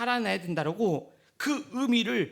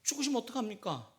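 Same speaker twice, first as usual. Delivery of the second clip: Peter protesting; faster than usual. Acted. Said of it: "베드로가".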